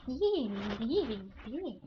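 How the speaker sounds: small goblin jeering cries; lightly voiced goblin mockery; mocking goblin. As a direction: taunt in little goblin squeals. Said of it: "kinda mocking you".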